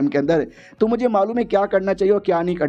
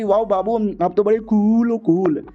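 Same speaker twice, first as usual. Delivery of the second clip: put-on higher, sugary girlfriend voice; gushing girlfriend voice; 4 semitones higher, slower than usual. Girlfriend swooning over the hero, higher and sugary. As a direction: coo at your hero, lovestruck.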